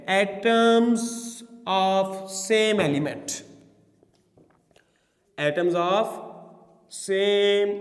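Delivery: word-by-word dictation with long pauses; slow dictation. Real, not acted. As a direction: dictate it very slowly, piece by piece for note-taking. Dictating a definition to students. (धीरे-धीरे रुक-रुक कर लिखवाते हुए)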